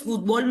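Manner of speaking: fútbol said as "futBOL"; stress on last syllable. Shown as a demonstration. Teacher showing Mexican pronunciation, fútbol stressed on final BOL. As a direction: put the weight on BOL in fútbol. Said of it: "porque es aguda para ellos".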